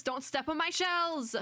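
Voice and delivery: high, slow mock-frantic plea; hammed-up protective fretting, drawn out high; alarmed warning. Orbit warning the frog off tiny shells, alarmed.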